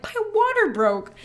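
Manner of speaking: high, breathless news; excited announcement. Retold or imitated. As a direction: blurt out the big news. Announcing to husband.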